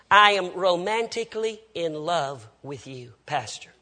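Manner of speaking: low, drawn-out mock love declaration; slow, pointed confession. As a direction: spell it out slowly, imitating a lovestruck woman. Woman spells out her confession.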